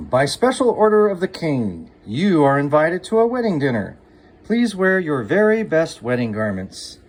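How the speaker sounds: loud, formal herald announcing the invitation; royal proclamation. Acted. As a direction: proclaim it like a town crier.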